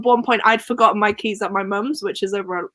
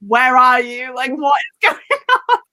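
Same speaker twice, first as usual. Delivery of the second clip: stressed; 4 semitones higher, 4 dB louder than usual. Retold or imitated. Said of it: "I'm, like, stressing".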